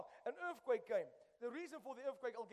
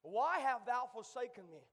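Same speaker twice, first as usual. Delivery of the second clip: cried out; 6 dB louder than usual. Retold or imitated. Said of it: "he cried out".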